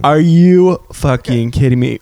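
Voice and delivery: real astonishment at a bargain; stunned, slowed disbelief at the price; shocked disbelief. Real, not acted. Shocked at cheap shirt price.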